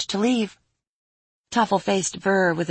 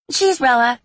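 fairy voice; 7 semitones higher, 6 dB louder than usual. Acted.

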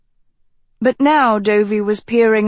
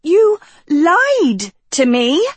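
high, slow, much louder whimper; mewling; 9 semitones higher, 4 dB louder, slower than usual. A narrator's reading. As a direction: mewl it out hurt and high. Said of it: "Sophie mewled".

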